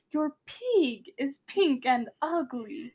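slow attempt at Russian; Russian accent. Shown as a demonstration. Showing listeners their take, slow amateur Russian accent. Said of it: "how bad mine was".

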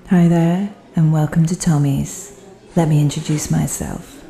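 loud, showy club singer's welcome to the room; stage host welcome. Acted. The undercover singer welcomes the club audience, loud and showy. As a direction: greet the jazz crowd like a nightclub host.

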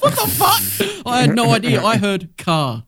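high, slow, incredulous mock wail; stunned high shriek. Friend stunned by car guessing, high slow shriek. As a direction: stretch the disbelief way up high. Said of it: "you're like".

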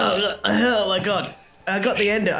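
choking on cinnamon, spluttering; coughing fit. Real, not acted. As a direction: cough through the words. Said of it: "It's like the cinnamon challenge".

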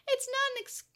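high-pitched objection, cut short; desperate protest. A narrator's reading. Tokomon tries to make himself heard, protesting. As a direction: break off mid-word.

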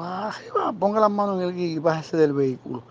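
mock police order, high and sharp; cop's commands. Retold cop arresting him.

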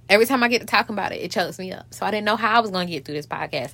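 talking through hiccups; hiccuping. Real, not acted. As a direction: hiccups breaking the words. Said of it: "now I'm hiccuping and shit".

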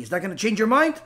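ordinary talk

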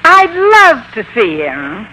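slow, smiling delight; slowly beaming with pleasure. Acted. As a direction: let the smile show in the words. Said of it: "You're smiling".

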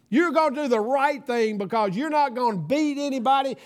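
emphatic, fatherly declaration; God speaking to son. Acted. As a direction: lightly voice God's firm promise. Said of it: "I heard my Father speak to my heart".

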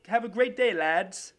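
put-on a shaky amateur Australian accent on a sports read; a wobbly attempt at an Australian accent, pitched a bit up. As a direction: soccer roundup in a hammed-up Australian accent. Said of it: "I'm trying to go Australian now".

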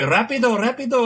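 mock Spanish-accent teacher barking. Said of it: "thick Spanish accent".

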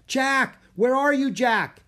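high, loud calling out; girl calling for her brother from above, loud; shouting. Acted. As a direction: call across the forest from a tree. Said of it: "He heard Annie shout".

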